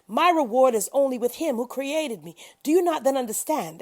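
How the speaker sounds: high, loud preaching to the people; impassioned exhortation. A narrator's reading. Hud preaches to his people, high and loud impassioned call. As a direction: urge them with all your force.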